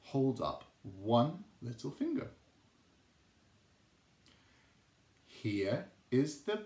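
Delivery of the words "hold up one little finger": put-on reading to children. Shown as a demonstration. Teacher leads finger rhyme.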